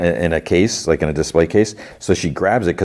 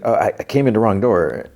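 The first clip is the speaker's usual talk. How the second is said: higher, lightly stammered excuse; imitated stutter; 4 semitones higher than usual. Intruder excusing herself to the shopkeeper, mild mock stutter. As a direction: trip over "I" while making an excuse. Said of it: "she kinda stutters".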